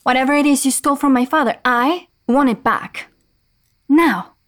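loud, rushed then firm demand; angry demand. Acted. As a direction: insist hard, stress want. Demands stolen item back.

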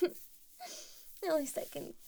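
slow giggling trail-off; laughing softly. Acted.

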